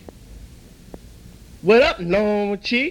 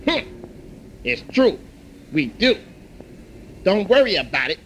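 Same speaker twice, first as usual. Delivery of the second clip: put-on calm old shop elder. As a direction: settle the fight like a wise old man. Elder owner gives free rice.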